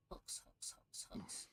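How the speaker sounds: whispered to herself; whispering. Real, not acted. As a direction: whisper the word while searching. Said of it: "muttering to self while searching".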